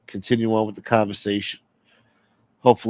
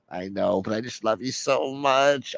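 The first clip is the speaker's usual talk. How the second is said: clingy whiny caller; 4 dB quieter than usual. Acted. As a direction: whine it lovesick and pitiful. Clingy caller professes love.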